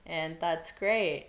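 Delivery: slow, dry sarcasm; sarcastic. Real, not acted. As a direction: drag it out sarcastically. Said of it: "I'm saying sarcastically".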